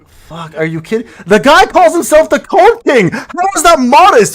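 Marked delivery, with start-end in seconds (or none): 1.2-4.3 incredulous. Real, not acted. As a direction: drag it out in mock outrage. Mocking friend's modesty claim.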